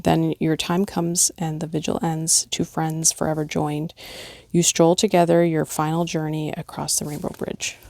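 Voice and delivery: gentle, measured poem read aloud; lightly heartfelt recitation. Acted. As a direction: read it like a memorial verse. Rereads poem ending correctly.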